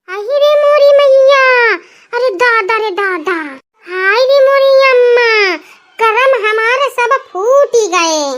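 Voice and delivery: mock sobbing wail over the shameful dress. Mother-in-law sees the revealing frock, hammed-up wailing lament.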